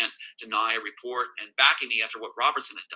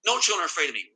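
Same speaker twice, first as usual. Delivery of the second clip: mimicked rage; 5 semitones higher, 4 dB louder, much faster than usual. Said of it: "raging at me in a manic rage".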